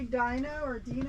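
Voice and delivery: Dino as DYE-no, then Dino as DEE-no; unsure of pronunciation. Real, not acted. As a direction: offer Dino both ways, long i then ee. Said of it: "I don't know how to say it".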